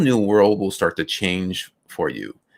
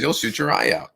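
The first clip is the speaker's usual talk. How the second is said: Santa; 7 semitones higher than usual. Retold or imitated. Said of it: "the Santa says".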